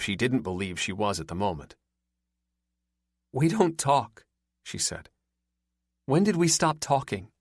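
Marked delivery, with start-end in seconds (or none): 3.3-7.3 put-on upset girlfriend. A narrator's reading.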